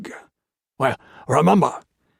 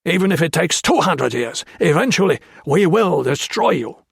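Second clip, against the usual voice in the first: raised, loud snarling voice; snarled threat; 5 semitones higher, 4 dB louder than usual. A narrator's reading. Japanese officer snarls threats at the prisoners, loud and hateful. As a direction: snarl it out with contempt. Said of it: "he snarled".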